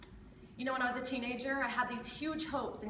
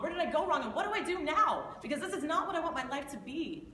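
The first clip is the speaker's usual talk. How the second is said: rueful laugh; 3 semitones higher than usual. Real, not acted. Tearful confession of a broken life.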